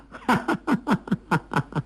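a high, gloating laugh that falls away; smug high laugh. A narrator's reading. Wanyan Kang laughing at his own scheme to his mother, gloating high laugh. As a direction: laugh up high, pleased with the trick. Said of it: "完颜康笑道".

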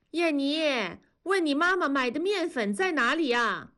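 老奶奶从厨房扬声喊; 隔着屋子喊问面粉在哪; 扬声喊人. A narrator's reading. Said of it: "童母在厨房里喊". (奶奶在厨房喊孙女，提高嗓门问)

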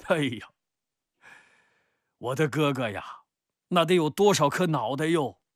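high, loud, alarmed exclamation; exclaiming protest. Acted. Cousin protests the risk of honest reporting, exclaiming.

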